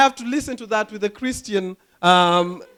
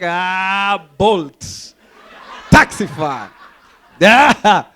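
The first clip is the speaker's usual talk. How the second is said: hammed-up battle cries, building louder; mock stabbing yells, word by word; mock attack cries; 7 dB louder, much slower than usual. Comic pretending to stab the driver, hammed-up attack cries.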